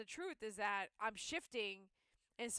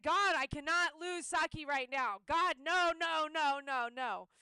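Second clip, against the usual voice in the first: pleading; 5 semitones higher, 9 dB louder than usual. Retold or imitated. Retold pleading in panic.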